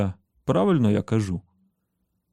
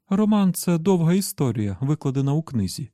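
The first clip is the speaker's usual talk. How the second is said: high-pitched woman character explaining; 7 semitones higher than usual. A narrator's reading. Susannah explains novels to Roland, high explanatory voice. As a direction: explain it in a raised, lively voice. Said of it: "розтлумачила Сюзанна".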